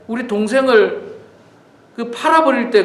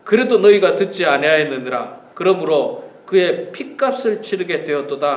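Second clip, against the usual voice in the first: scripture reading; 4 semitones lower than usual. Acted. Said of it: "르우벤이 그들에게 대답하여 이르되".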